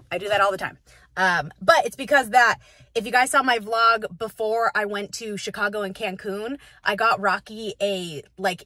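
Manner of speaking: normal talking voice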